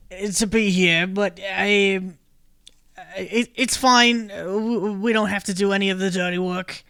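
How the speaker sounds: bored toad grumbling about his job; toad folk accent. Acted.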